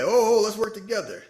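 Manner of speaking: high, loud mock pleading; pleading ally. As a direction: beg her to team up. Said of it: "He like".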